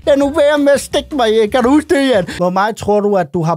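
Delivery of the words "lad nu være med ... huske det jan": imitating crying plea. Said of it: "han græd og skreg".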